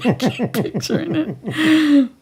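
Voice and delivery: real laughter breaking up the line; laughing while talking. Real, not acted. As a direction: talk through a fit of giggles. Cannot stop laughing at the image.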